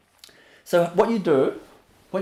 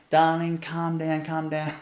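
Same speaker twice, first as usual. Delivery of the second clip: soft coaxing parent, fading quieter; sweet talk; 4 dB quieter than usual. Retold or imitated. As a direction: sweet-talk the child, dropping away softer. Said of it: "Speaking sweet words".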